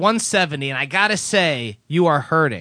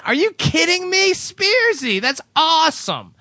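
excited; 11 semitones higher, slower than usual. Acted. Excited reading of a fan letter.

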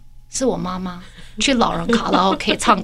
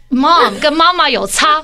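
slow pointed jab; 4 semitones higher, 3 dB louder, slower than usual. Retold or imitated. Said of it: "我说".

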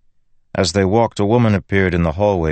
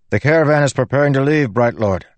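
lightly voiced servant; 8 semitones higher than usual. A narrator's reading. Servant at the door.

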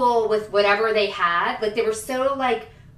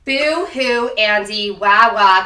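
fake crying; 7 dB louder, much slower than usual. Mocking Andy's whining.

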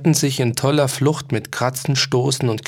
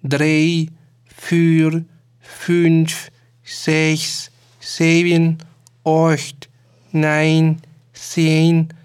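little clocks chiming in together, lightly pitched up; lightly raised chorus counting the hours; 3 semitones higher, much slower than usual. A narrator's reading. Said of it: "antworteten die anderen".

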